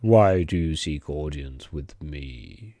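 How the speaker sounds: put-on a slow, heavy Swedish accent. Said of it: "he says in a Swedish accent".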